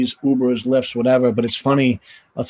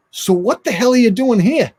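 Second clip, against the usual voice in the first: high, laughing through the question; laughing disbelief; 11 semitones higher, 4 dB louder than usual. Retold or imitated. Hockey player's son laughing at a goalie parking cars. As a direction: ask it while cracking up in disbelief. Kid's quote, laughing heard.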